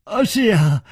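high, lightly amused reply; amused agreement. A narrator's reading. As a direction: agree with a laugh in the voice. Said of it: "南宫灵笑着说". (笑着附和)

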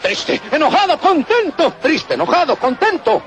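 switching moods. Acted. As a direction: flip between happy, sad, angry. Mood swings acted out.

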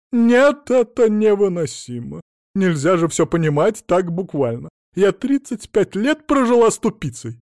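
loud, high, exasperated outburst; shrill exasperated tirade. Acted. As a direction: vent your fury. Wife exasperated with husband.

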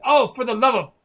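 fed up at the interruption; exasperated. Acted. Lord Anton snaps at the nagging thug, exasperated. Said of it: "He says".

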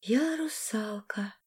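slow, soft, lost whisper; bewildered whisper. A narrator's reading. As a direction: breathe it out in confusion. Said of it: "растерянно прошептала Арина". (растерянный шёпот)

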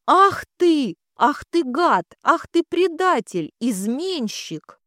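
high, loud furious cries; furious outburst. Acted. Jilted bride lashes the groom with the bouquet, raging. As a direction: hurl the insults at him in a rage.

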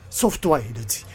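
yelling a warning to flee; urgent shout. Acted. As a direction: shout at her to run.

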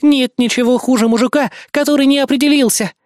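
high, heated accusing rant; indignant tirade. A narrator's reading. Indignant woman tirades at narrator.

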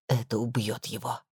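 low and soft, a grave hush. Acted. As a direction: drop the voice for the bad news. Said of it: "Она понизила голос".

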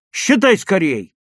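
high, loud, stretched-out urging; alarmed, insistent cry; anxious shout. A narrator's reading. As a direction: urgently beg a friend to count. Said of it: "тревожно крикнул Лёвка".

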